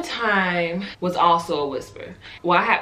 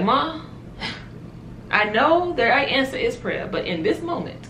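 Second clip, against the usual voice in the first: desperate plea; 7 semitones higher than usual. Retold or imitated. Pleading with mom, at her limit.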